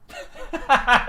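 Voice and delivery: short high laugh at himself; high burst of laughter. Real, not acted. Laughing at how angry he got at work. Laughs at his own anger.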